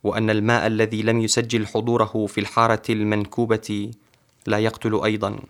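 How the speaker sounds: measured, fluent poetry reading; poem recitation. Acted. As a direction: recite your own verse with steady flow. Poet recites his Arabic poem.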